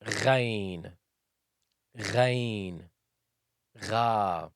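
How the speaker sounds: gargle out "Gha"; gargled Ghain. Shown as a demonstration. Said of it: "as if you're gargling with water".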